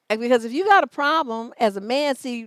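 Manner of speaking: usual speaking voice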